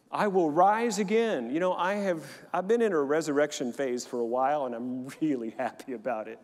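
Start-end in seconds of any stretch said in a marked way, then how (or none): 0.1-1.5 loud, high, slow proclamation; proclaiming. Acted. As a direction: declare the rising to the church.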